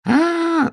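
very high long held scream; high terrified wail; hedgehog scream. A narrator's reading. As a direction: shriek as the earth splits. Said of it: "закричал ежик".

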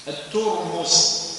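الترمس very slow, u on the ta and on the mim: at-turmus; careful pronunciation. Shown as a demonstration. Teacher spelling the word out for students, slow and careful. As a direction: draw الترمس out syllable by syllable. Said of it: "يعني بتاء مضمومة".

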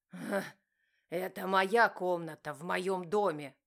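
husband gloating over his house; mocking laugh. A narrator's reading. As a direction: laugh in her face. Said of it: "рассмеялся муж".

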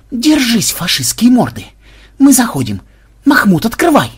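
high, rousing charge shout; battle cry. A narrator's reading. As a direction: holler the assault order at the enemy. War cry before storming headquarters.

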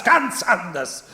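"ganz anders" repeated slowly, still high, stressing "ganz". Acted. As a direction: let "ganz anders" fall back slowly and firmly.

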